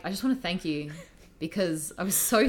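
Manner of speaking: grateful former student. Retold or imitated. Former student thanking his strict teacher, earnest and grateful. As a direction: play the relieved kid thanking his old teacher. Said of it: "And he was like".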